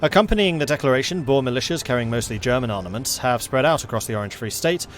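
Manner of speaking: dramatic newsreader read-out; news read. Acted. Streamer reads a game news event to viewers, newsreader style. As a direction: announce it like breaking news.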